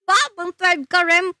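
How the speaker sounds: high-pitched wow of surprise; pleasantly surprised. Real, not acted. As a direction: react with sudden delight, voice jumping up. Reacting to viewer's news.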